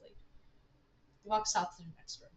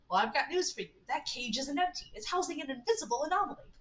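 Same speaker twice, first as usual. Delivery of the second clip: lightly voiced scientist, pitch climbing; Stanford Pines; 5 semitones higher than usual. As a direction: reveal it like a proud researcher. Voices Stanford revealing the anomaly.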